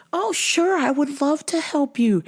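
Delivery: put-on high, sweet, obliging girl voice; eager helper. Side pony girl agrees to help, high eager sweetness.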